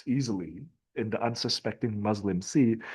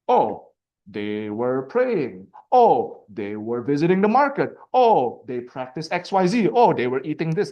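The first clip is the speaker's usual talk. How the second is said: mocking list of trivia; 3 semitones higher, 6 dB louder than usual. Mocking Lane's catalog of details.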